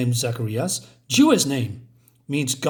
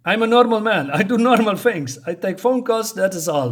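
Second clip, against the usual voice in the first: defensive thug; 6 semitones higher, 5 dB louder than usual. Retold or imitated. Thug insists he's just normal.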